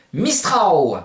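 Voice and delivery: MISTRAO ending in an "ao" glide; Provençal pronunciation. Shown as a demonstration. Teacher naming the Mistral, Provençal pronunciation. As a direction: model mistrao, the final l turned to a vowel. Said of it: "qui se dit lou".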